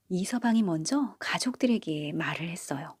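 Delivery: ordinary delivery, nothing marked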